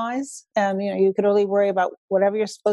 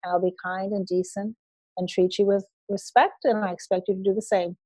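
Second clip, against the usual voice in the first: calm firm voice; 3 dB quieter than usual. Retold or imitated. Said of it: "I would just speak to her in a very calm voice".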